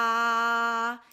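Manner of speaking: pressed, constricted tone; strained throat. Shown as a demonstration. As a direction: squeeze the note through a tight throat. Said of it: "this is what it sounds like when you do not have an expanded throat".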